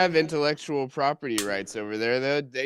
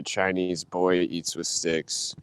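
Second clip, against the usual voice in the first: slow quoted title; 8 semitones lower, 5 dB quieter, much slower than usual. Retold or imitated. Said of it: "they changed it later to".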